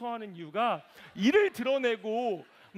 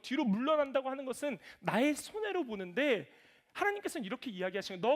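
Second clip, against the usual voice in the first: normal talking voice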